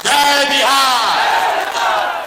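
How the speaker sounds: second "जय Bihar" drawn out very slowly; rally slogan shout. Real, not acted. Politician closing his rally speech, leading a drawn-out slogan shout. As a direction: lead the crowd in a long, stretched slogan.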